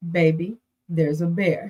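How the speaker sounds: tender, easy, very gentle delivery. Retelling how a husband calmly announced a bear: imitating someone saying it gently. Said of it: "my husband says very gently".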